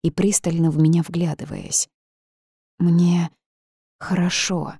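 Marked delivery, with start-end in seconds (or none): 2.8-4.7 halting, woozy mumble with a long gap; dazed mumble. A narrator's reading. Swaying heroine reassuring the ghost, dazed mumble. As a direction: mumble it as if drunk. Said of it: "осоловела пробормотала".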